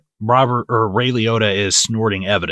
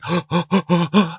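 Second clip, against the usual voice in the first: mock gasp; 7 semitones higher than usual. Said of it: "I was like".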